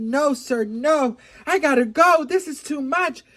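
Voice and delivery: acted panic, pitch climbing; flustered refusal. Acting out flustered refusal of suitor.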